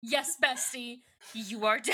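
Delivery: laughing delivery. Retold or imitated. Hammed-up repeat, breaking into laughter.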